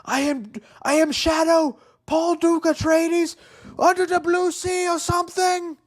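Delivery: hammed-up high mock heartthrob voice; Timothy Chalamet impression. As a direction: lampoon a breathy heartthrob reading the Shadow line, slow on the name. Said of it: "Timothy Chalamet, dude, do not".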